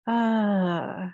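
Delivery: loud yawn mid-sentence. Real, not acted. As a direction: talk through a yawn. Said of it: "Sorry for the yawn".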